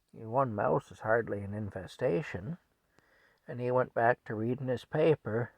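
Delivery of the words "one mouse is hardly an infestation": dry, softer dismissal; unbothered understatement; nonchalant husband. Retold or imitated. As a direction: play it down without effort. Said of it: "just very nonchalantly".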